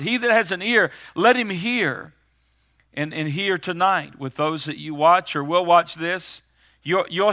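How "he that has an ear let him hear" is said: raised, higher-pitched urgent appeal; urgent, preached proclamation; urgent cry. Retold or imitated. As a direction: press the command on the listeners. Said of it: "there's an urgent cry today".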